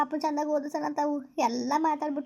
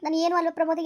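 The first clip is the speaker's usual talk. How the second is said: louder, wounded demand; hurt protest; 5 dB louder than usual. Acted. Rejected girlfriend asking Pramod if she means nothing, loud and hurt. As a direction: push back, stung and loud.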